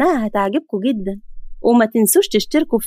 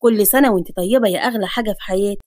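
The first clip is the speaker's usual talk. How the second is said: lovingly; 5 semitones lower than usual. Acted. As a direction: give his wife the gift tenderly. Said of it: "بحب وقال".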